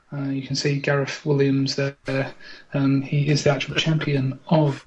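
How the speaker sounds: low hushed live commentary; game commentator. Acted. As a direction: talk him up like a TV commentator. Mock commentary on contestants.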